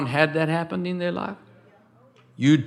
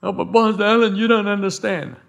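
higher-pitched imitated objection; mock a pleading objector in a higher voice; protesting congregant; 5 semitones higher than usual. Church member objecting to the pastor, mock protest.

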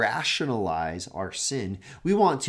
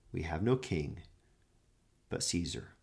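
grave answer; 8 semitones lower, 10 dB quieter than usual. Acted. Chief priests answering Pilate, low and soft. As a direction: let the words sink heavily.

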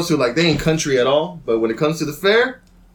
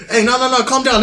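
hastily intervening in a higher voice; peacekeeper; 7 semitones higher than usual. Retold or imitated. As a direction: play a mildly urgent peacekeeper, pitched up. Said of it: "trying to be the peacekeeper".

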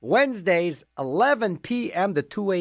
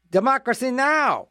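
announcer read; 7 semitones higher than usual. Acted. Announcing show names on air.

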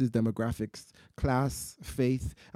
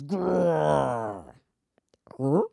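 bear growl. Acted. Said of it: "And the bear growls".

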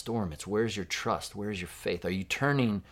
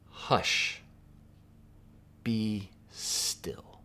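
hushed command; 4 dB quieter, much slower than usual. Acted. Jesus speaks to the sea.

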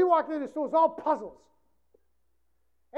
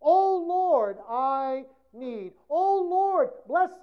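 mock pleading prayer; 6 dB louder, much slower than usual. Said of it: "your prayers are informing God".

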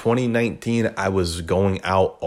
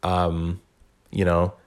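usual speaking voice

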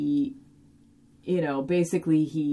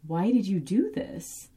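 mild imitated crying; 3 semitones higher, slower than usual. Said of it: "she's kind of crying a little bit".

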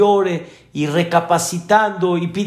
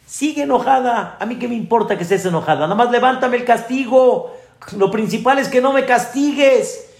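put-on much higher, fast cheeky little boy; much higher child voice bargaining with mom over the punishment; 8 semitones higher, faster than usual. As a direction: haggle with mom like a cheeky kid.

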